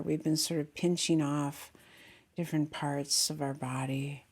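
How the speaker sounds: calm meditation guide with long pauses; unhurried guiding voice, settling listeners into the body; guided meditation. Real, not acted. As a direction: lead them gently inward, leaving long silences.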